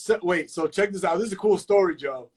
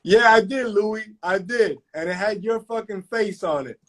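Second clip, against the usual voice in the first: playful comeback; 5 semitones higher than usual. Real, not acted. Comeback to friend's joke.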